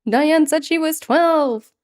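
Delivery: high, slow mimicry; imitating the video line. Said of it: "One more time".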